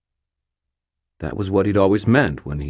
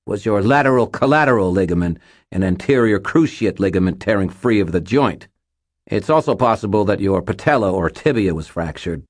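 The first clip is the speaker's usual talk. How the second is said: forced calm; 3 semitones higher, 4 dB louder than usual. Acted. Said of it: "his voice tight with fear and adrenaline".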